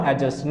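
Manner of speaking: adjust said as "a-just"; silent D. Shown as a demonstration. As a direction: drop the D in adjust. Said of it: "D here is the silent".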